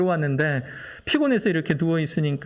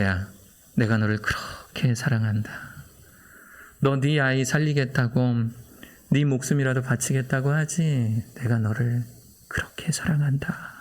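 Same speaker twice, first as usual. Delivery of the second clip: voice of God; 3 semitones lower than usual. Retold or imitated. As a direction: speak like a tender father from above. God's voice repeated.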